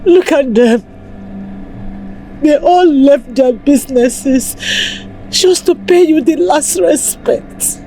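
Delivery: sobbing, begging her dead husband to forgive her, breaking into cries; tearful pleading. Acted. Wife begging her dead husband's body for forgiveness, crying. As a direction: plead through tears, voice cracking into wails.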